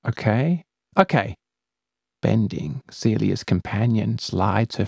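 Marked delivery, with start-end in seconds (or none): 0.1-0.6 hesitant okay. Acted. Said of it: "calculating the likelihood". 1.0-1.3 resigned okay. Acted. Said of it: "calculating the likelihood".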